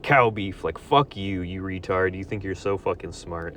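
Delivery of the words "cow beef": mocking smug voice. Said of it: "You're gonna know".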